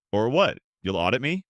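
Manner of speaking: loud, mocking sneer. Husband taunting his father-in-law, loud and sneering. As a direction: taunt him, daring him. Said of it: "he sneered".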